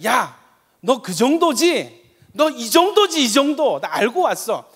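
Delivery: taunting, slow and loud; a loud taunting devil; mocking Satan. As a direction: sneer at the believer as Satan. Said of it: "사탄이".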